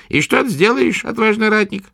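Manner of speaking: high taunting crone; mocking old witch. A narrator's reading. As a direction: sneer at the brave warrior. Witch mocks.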